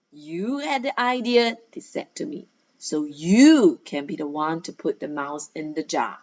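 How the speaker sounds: lively read-aloud of a school story. A narrator's reading. Teacher reading a story to her pupils, lively narration. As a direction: read it to the class with energy.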